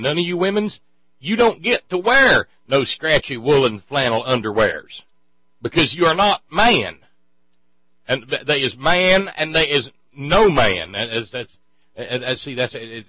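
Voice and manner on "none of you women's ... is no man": loud hick preacher rant; mock ranting preacher. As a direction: bellow it like a backwoods preacher.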